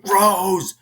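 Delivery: high, loud cry of the name; mother's scream. Retold or imitated. Crazed mom as her daughter flees, high scream.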